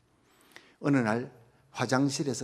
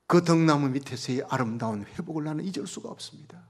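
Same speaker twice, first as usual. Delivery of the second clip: ordinary talk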